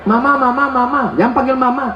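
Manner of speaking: put-on child calling mama. A hint of a child calling for mother. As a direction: call out like a small kid.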